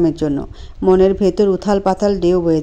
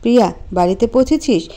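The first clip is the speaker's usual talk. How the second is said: calm. Acted. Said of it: "শান্ত গলায় বলল".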